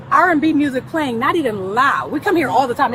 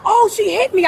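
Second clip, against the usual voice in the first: higher-pitched mock accusation; mimicked complaint; 6 semitones higher than usual. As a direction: lightly mimic someone crying foul.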